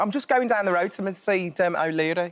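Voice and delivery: Brummie line, pushed a little harder; pushed Birmingham accent. Shown as a demonstration. Coach exaggerates his Brummie accent for the lesson. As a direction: lean into the Brummie vowels. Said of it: "I'm pushing it a little bit".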